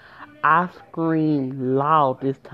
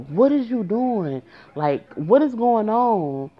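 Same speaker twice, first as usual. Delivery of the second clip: mock scolding, pitched up and drawn out; going off on him; 6 semitones higher, slower than usual. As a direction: retell the daughter's outraged demand, voice raised in pitch. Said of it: "going off on him".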